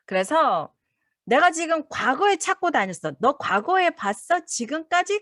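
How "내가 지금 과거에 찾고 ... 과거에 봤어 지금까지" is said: searching asker. Acted.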